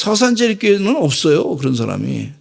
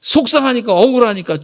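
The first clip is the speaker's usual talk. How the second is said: heated; 6 semitones higher than usual. Shown as a demonstration. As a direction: say it with rising hurt.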